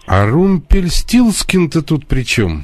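to someone hard of hearing. Real, not acted. Caller can't hear well.

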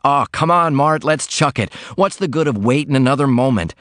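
a laundryman longing for the open road, gleeful; joyful cry. Acted. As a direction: burst out like a man let loose. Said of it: "he cried".

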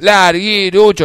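slow, loud drawn-out call; kids' call. Retold or imitated. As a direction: call the name out slowly. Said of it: "los chicos me decían".

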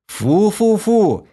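high, slow yelled disgust; yelling. A narrator's reading. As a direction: yell it out in disgust. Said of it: "завопил я".

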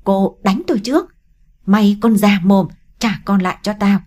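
loud, accusing outburst; angry snapping. Acted. Huyền lashing out at Mi from the hospital bed, angry. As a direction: point and lash out at her. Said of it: "chỉ tay vào mi gắt lên".

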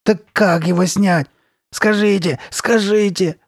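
high, loud, desperate begging; imploring. A narrator's reading. Girl asking how to remove it, imploring. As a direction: implore with mounting urgency. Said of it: "умоляла его Карли Бет".

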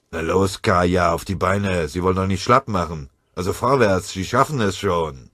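loud, hearty encouragement; encouraging. Acted. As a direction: pull him up with a rousing call. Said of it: "ihm gut zuzureden, ihn aufzumuntern".

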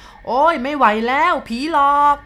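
high, loud, slow wail of terror; terrified cry. Acted. Driver screaming at the ghost before passing out, terrified wail. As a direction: cry out just before fainting. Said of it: "เขาร้องได้แค่นั้น".

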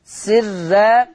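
سرا with a thin, light r; سرا in careful tajweed, the ra thinned. Shown as a demonstration. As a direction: say سرا keeping the r and its a unvelarized. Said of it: "عندنا ترقيق الراء".

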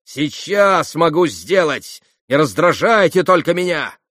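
high, loud, frenzied defiance; wild outburst of threats; hysterical shouting. A narrator's reading. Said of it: "Последние слова она истерически прокричала".

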